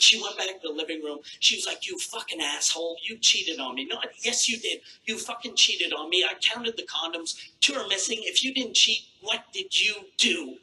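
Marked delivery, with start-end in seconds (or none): 1.9-10.6 mock furious wife. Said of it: "She fucking lost it".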